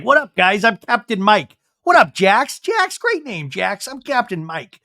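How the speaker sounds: high, loud, hammed-up fishing guide; Captain Mike. Fishing guide greets the guys, hammed-up hearty voice. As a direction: shout hello as an overeager boat captain. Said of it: "this fishing guide, Mike, Captain Mike".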